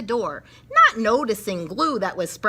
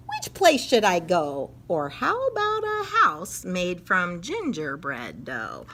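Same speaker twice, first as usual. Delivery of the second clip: teasing leprechaun. Acted. Leprechaun teasing where he'll strike next. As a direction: tease like a tricky elf.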